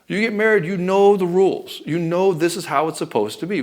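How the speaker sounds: high-pitched, insistent comeback; exasperated husband arguing back; acted indignant retort. Acted retort in marital quarrel.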